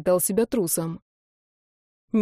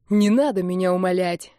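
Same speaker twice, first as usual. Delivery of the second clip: barked retort. Acted. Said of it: "рявкнул он".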